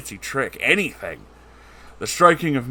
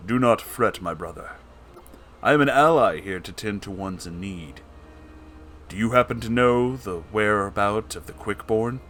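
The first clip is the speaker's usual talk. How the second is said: noble gentleman voice. Acted. Noble gentleman character speaks.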